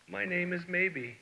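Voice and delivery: small, soft crumb voice, slow; tiny voice. A narrator's reading. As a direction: say it small and shy. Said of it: "in a tiny voice".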